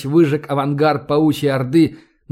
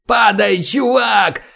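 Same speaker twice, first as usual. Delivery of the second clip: higher, raised warning yell; urgent shout; 6 semitones higher, slower than usual. A narrator's reading. Soldier warning the fleeing man to drop, urgent shout.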